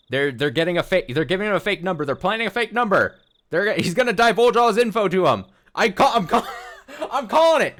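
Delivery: excited accusation. Real, not acted. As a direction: shout the theory as it builds. Rising accusation, laughing.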